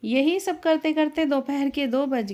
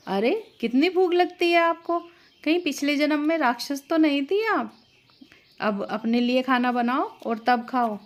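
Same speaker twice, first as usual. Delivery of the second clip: mock her like a spiteful sister-in-law; 3 semitones higher than usual. Sister-in-law mocks Naina for eating, sneering and higher.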